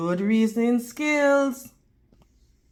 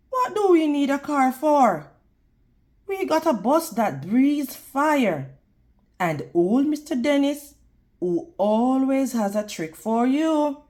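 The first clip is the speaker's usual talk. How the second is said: a hint of a cheerful grandmother, a bit higher and quicker; lively Nana; 3 semitones higher, 4 dB louder than usual. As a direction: Nana brushing off the question with a grin. Nana answers C J in story.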